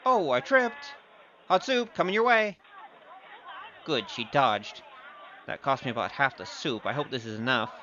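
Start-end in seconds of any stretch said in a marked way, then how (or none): 0.1-2.6 higher, playful mock-innocent; fake accident. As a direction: pretend the trip was an accident. Fakes tripping to throw soup.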